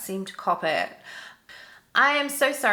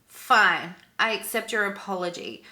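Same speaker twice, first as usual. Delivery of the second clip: mocking. Rude passenger accepting an apology on a plane, mocking. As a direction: imitate an eye-rolling, grudging acceptance. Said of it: "rolling her eyes and mocking me".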